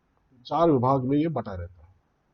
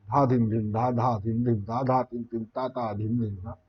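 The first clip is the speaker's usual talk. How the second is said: quick bols fading much softer; fast drut bols; 3 semitones lower, 4 dB quieter than usual. Shown as a demonstration. Teacher demonstrates drut lay to students, fast. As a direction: rattle them off fast. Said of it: "जो कि और speed में चलेगी".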